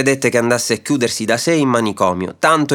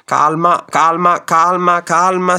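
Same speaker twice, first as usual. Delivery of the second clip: raised, insistent calls for calm; agitated urging; 7 semitones higher, 4 dB louder, slower than usual. A narrator's reading. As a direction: urge calm while losing your own. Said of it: "come se la calma stessero per perderla gli altri". (invito alla calma, agitato e acuto)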